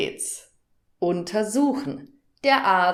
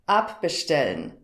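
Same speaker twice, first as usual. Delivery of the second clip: abbestellen with the first syllable ab stressed; stress shown on ab; 4 semitones lower than usual. Shown as a demonstration. Teacher showing a learner where the stress falls, ab stressed. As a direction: hit the ab in abbestellen. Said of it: "Hörst du die Betonung?".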